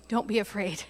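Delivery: quiet, gentle "Don't be afraid"; hushed kindly "Don't be afraid" after the outburst; soft reassurance. Pretend. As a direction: drop the voice and comfort them. Soft reply after angry line.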